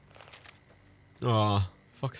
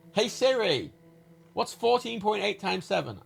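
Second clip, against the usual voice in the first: higher, clearer repeat so the phone hears; repeated louder for Siri; 9 semitones higher than usual. Real, not acted. Streamer repeats the sum to Siri after no answer, higher and clearer. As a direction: say it again, higher and more deliberate. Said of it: "I'm talking to my computer".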